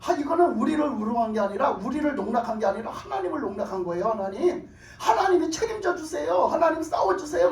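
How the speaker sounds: imitated complaint climbing into a plea; tattling prayer. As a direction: report the insult and beg for backing. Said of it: "하나님 앞에 일러 바쳐요".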